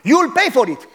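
police warning the father as they leave; parting threat. Retold or imitated. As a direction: spit the threat on the way out.

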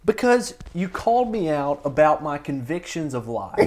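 heated yelling with a laugh; loud sharp voice. Real, not acted. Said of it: "Why are you yelling right now?".

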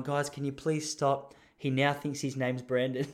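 mock-exhausted wife begging; shattered wife. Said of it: "his wife looking shattered, going".

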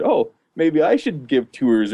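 slow, pronounced imitation of a thick English accent; mock a friend's thick English accent, drawn out. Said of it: "put on this super thick accent".

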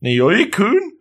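baffled, rising questioning; acted confusion. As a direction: question him in high-pitched bewilderment. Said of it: "this is where Nagisa's confused".

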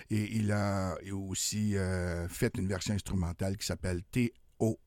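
hoarse from a cold; rough, hoarse voice from flu. Real, not acted. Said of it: "ça se peut que ma voix rauque de temps en temps".

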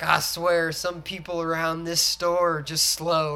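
slow Southern drawl, lightly imitated; Southern accent. Guy retelling the movie to a friend, imitated Southern accent. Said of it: "like, Southern?".

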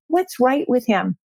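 mild, settled self-questioning; retold change of heart, lightly voiced; reconsidering, retold. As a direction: act out stopping to think better of him. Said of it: "then I stopped and I said".

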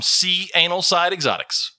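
"C Anal Side" split into the letter C, then "anal side"; deliberately butchered name. Real, not acted. Host jokingly butchering a chat member's name, deliberately mispronounced. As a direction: say "C Anal" as two separate words. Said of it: "I would butcher the name".

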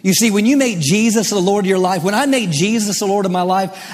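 emphatic, driving sermon delivery; impassioned pulpit proclamation; fervent preaching. Real, not acted. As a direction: declare it boldly to the congregation. Preaches with mounting force.

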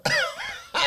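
sudden squeal of a laugh; high burst of laughter. Real, not acted. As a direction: let out a quick high laugh.

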